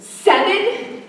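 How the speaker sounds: high, rising disbelief; astonished question. Acted. Daughter hearing how many camps her mother was in, astonished. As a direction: echo the number as a startled question.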